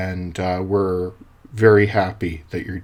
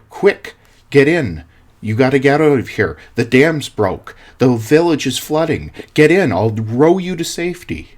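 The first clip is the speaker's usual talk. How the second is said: raised, urgent neighbor calling from a boat; urgent call to get in; 4 semitones higher, 5 dB louder than usual. Acted. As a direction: hurry him into the rowboat, louder and higher. Neighbor in rowboat urging rescue.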